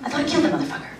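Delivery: high-pitched bewildered outcry; startled friends. Retold or imitated. Friends hearing quacks during Duck Hunt, mock startled outcry. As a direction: act baffled by a sudden odd noise. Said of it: "they were just like".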